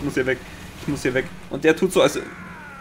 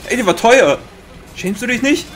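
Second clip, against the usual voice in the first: mock scolding; 5 semitones higher, 3 dB louder than usual. Scolding the enemy like a child.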